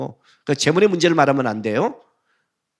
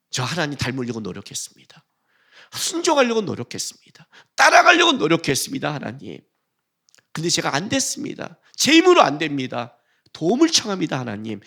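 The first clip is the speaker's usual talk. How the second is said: humble prayer. Shown as a demonstration.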